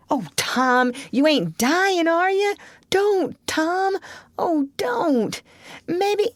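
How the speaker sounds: high, near-tearful pleading; terrified little brother; frightened. Acted. Sid begging Tom not to die, high and tearful.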